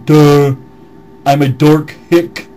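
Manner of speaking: mock dim-witted hick voice; mocking dumb hick. Mocking the commenter's replies in a lightly voiced dumb hick. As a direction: play a dumb yokel, dopey. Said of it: "response you've been giving".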